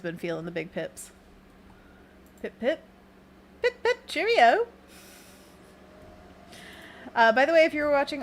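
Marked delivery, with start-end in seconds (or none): 3.6-4.7 high, loud, drawn-out pip-pip; playful cheerio. Pretend. Artist plays on the big pips she drew, playful high voice. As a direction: sing out a jokey farewell.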